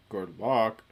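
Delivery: lightly deepened mock-solemn voice; very deep voice. A Luma sees off the mission, very deep voice. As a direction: drop the pitch a little, imitating a deep voice. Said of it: "in a very deep voice".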